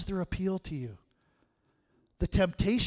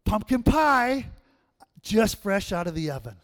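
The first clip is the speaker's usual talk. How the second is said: put-on high, sweet old grandma voice, much higher; grandma's voice; 9 semitones higher, 8 dB louder than usual. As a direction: coo it like a doting grandmother. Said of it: "And Grandma says".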